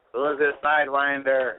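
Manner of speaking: imitating Bushwick. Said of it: "will agree when I say".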